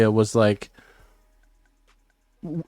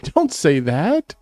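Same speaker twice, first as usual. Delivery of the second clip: horrified; 12 semitones higher, 3 dB louder, much slower than usual. Real, not acted. Horrified at daughter listening.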